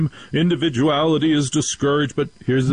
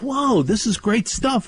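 mock excitement; 10 semitones higher than usual. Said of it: "I'm like".

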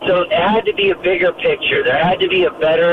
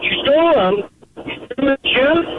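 high, stunned double-take; can't believe what he's hearing; incredulous gasp of a question; shocked disbelief; 9 semitones higher, faster than usual. Retold or imitated. Shocked at girlfriend's theft.

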